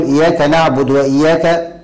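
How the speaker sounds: نعبد said "naʕbud" straight into وإياك; dal with sukun. Shown as a demonstration. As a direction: clip the u off the د of نعبد. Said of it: "إذن القارئ لا يقول".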